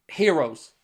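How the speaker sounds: breathy, emotional whisper; whispered sigh. Real, not acted. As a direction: sigh the word out softly. Emotional praise for the players.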